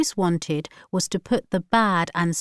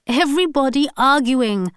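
laughing; 6 semitones higher, 5 dB louder than usual. A narrator's reading. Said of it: "laughed Alsana".

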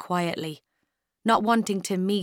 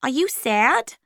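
higher, gentle question; lightly voiced supervisor; 6 semitones higher, 4 dB louder, slower than usual. A narrator's reading. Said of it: "Miss Fortini said".

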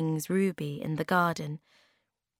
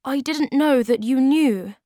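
high, shy flustered voice; blushing child caught out; embarrassed Moomin Troll; 8 semitones higher, 8 dB louder than usual. Acted.

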